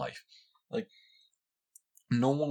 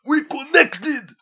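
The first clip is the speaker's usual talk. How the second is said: even higher, louder and very slow; hammed-up slow fan wail; drawn-out mocking fan; 12 dB louder, much slower than usual. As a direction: stretch the squeal out in mock rapture. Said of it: "they're like".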